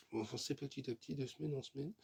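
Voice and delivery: talking with a sore bitten tongue; words blurred by a bitten tongue. Real, not acted. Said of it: "Je me suis mordu la langue, ça fait mal". (langue mordue, parole gênée)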